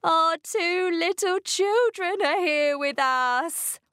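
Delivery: high, urgent pleading; panicked plea. A narrator's reading. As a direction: plead to protect the children. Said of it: "Mister and Missus Gregg shouted".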